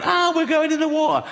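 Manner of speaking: high panicky squeal, hammed up; comic terrified wail; mock panic. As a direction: shriek it like a panicking passenger. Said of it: "people are running around going".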